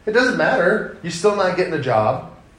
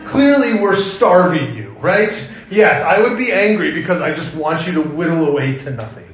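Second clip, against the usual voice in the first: sarcastic; 3 dB louder than usual. Pretend. Sarcastic dad, laughing.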